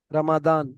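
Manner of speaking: "রমাদান" with a sound between D and Z; Arabic pronunciation. Shown as a demonstration. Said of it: "দ আর জর মাঝখান থেকে বলে". (দ আর জ-এর মাঝখান থেকে "রমাদান")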